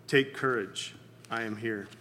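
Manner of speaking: steady them gently, letting the voice drop away; soft, low words of comfort. Retold or imitated. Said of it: "in a comforting voice".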